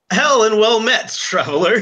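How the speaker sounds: posh RP greeting. Acted. Player voices Heron greeting in posh RP. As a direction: greet the traveler in a mild posh British voice. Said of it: "he goes".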